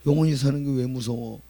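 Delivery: puzzled father. Retold or imitated. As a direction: ask the boy what's wrong. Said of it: "father asks son". (아들에게 묻는 아빠의 의아한 말투)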